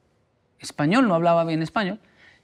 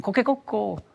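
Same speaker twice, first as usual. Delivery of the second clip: rooster crow; 4 semitones higher, 3 dB quieter than usual. Retold or imitated. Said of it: "Y ellos escuchan".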